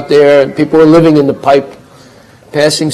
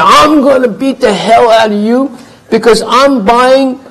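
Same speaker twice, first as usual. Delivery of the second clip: high, raised menacing rant; threatening neighbor; 6 semitones higher than usual. Acted. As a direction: neighbor with a bat ranting at the husband. Neighbor threatening with baseball bat.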